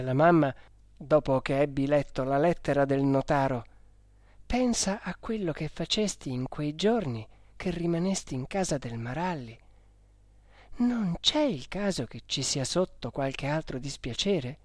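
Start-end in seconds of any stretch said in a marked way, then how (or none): 4.5-14.6 softly voiced mother warning her child; quiet, lightly acted motherly caution; a hushed word of warning to a son.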